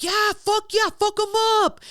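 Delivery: high-pitched hyped-up mock cheer; retold cheering. Retelling a bettor rooting for Disco Dan, hyped cheering. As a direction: imitate a hyped fight fan egging it on.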